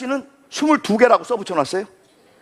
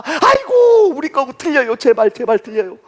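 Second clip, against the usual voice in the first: pleading seller; 4 semitones higher than usual. Retold or imitated.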